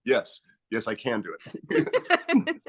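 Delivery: high, slow, through giggles; barely holding back laughter; giggling. Retold or imitated. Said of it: "He just goes".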